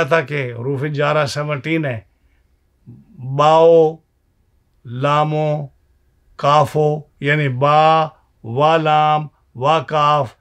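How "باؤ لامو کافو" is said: باؤ، لامو، کافو each letter closed with an o sound; poetic o ending. Shown as a demonstration. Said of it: "او کر کے پڑھتے ہیں". (او کے ساتھ حروف پڑھنا)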